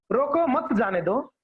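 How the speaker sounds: group मत with रोको, meaning let them go; pause after मत. Shown as a demonstration. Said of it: "दोनों समझ सकता है एक". ("रोको मत" साथ में, फिर "जाने दो")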